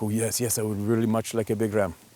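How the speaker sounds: put-on Mexican accent. Speaker retells what his hunter answered him; imitating a Mexican accent. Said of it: "I can't mimic the Mexican accent perfectly, but I can try".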